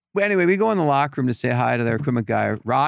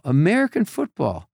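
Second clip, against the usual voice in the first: higher, faster baffled question; puzzled officer; 6 semitones higher than usual. Retold or imitated. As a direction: sound completely lost.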